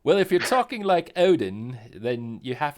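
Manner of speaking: playful, hammed-up impersonation, starting high and loud; Odin. Teasing the co-host about talking like someone, in a put-on voice. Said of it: "your second impersonation tonight".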